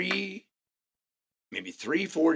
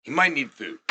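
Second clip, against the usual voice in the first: soft, lowered voice of mild concern; gentle concern; 8 semitones lower, 7 dB quieter than usual. Acted. Party-goer asks after friend who went to bed, soft concern. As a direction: check on a sleeping friend quietly. Acts caring friends of the sleeper.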